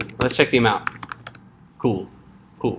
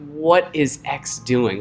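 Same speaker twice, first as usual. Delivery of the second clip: slow, softer puzzled self-questioning; baffled; 7 dB quieter, much slower than usual. Acted. Coder rereading old code later, baffled.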